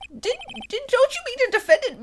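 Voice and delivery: laughing through a high squeaky voice. Acted. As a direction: giggle while saying it. Laughing while voicing.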